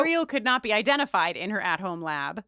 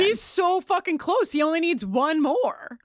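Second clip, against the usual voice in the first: mock excited; 7 semitones higher, 4 dB louder than usual. Mock excitement about collection.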